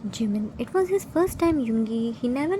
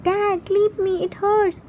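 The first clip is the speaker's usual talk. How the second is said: high crying plea; cracked voice; 7 semitones higher than usual. A narrator's reading. Son begging dad to let go, crying. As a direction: beg through tears. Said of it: "Hobie cracked voice".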